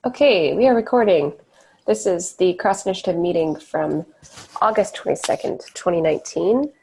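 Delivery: stuffy, blocked-nose nasal voice. Real, not acted. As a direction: talk through a stuffed-up nose. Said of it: "I apologize for my nasal voice".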